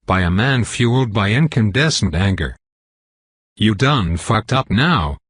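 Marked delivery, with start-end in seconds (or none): 3.6-5.2 slow, lightly done Texan drawl. Acted. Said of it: "it whispers in a Texan drawl".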